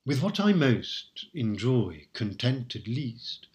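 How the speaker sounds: slow, measured verse reading; poem recital. Shown as a demonstration. Lecturer quoting the sonnet aloud, slow recital. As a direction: savour each word of the verse.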